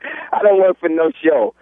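slow fake New York accent. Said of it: "I can hear the faker".

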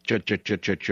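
quick chugging boat sound; imitated engine noise. Boat owner describing his tug setting off, imitated chugging. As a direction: mimic a small motor with repeated "ch".

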